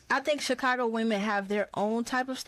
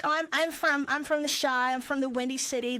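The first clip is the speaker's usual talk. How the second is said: mock tourist; 4 semitones higher than usual. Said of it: "We don't really be like".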